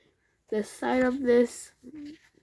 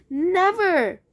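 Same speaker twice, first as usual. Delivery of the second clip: defiant; 9 semitones higher, 6 dB louder than usual. A narrator's reading. Father's defiant reply.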